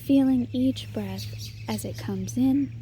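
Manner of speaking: measured meditation guide, long pauses between phrases; guided meditation. Acted. Meditation leader guiding listeners to settle and notice their breath, guided meditation. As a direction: lead them gently through it, leaving space after each instruction.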